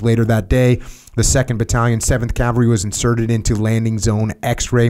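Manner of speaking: steady documentary reading; history narration read. Acted. Host reading the war history to listeners, documentary narration. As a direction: read the battle record like a narrator. Reads historical account aloud.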